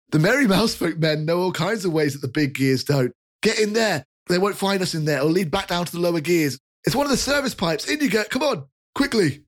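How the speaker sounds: high, apologetic chubby fellow; jolly rotund man. Acted. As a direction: soothe the startled kid cheerfully. NPC hurries them into hatch.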